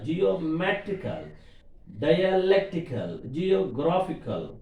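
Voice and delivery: "geometrical, dialectical, geographical" stressing MET, LEC, GRAPH; stress before the suffix. Shown as a demonstration. Teacher listing examples, stress before "-ical" in each word. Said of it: "Suffix before letter".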